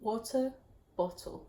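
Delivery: careful British accent, word by word; British accent attempt. Shown as a demonstration. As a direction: copy the British accent, pausing between words. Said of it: "say it again".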